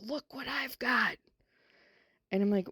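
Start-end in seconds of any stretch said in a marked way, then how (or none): 0.0-1.2 higher and slow, voicing a small child; little girl voice. Teacher voicing the little girl showing crackers, childlike. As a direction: play the shy first grader showing her find.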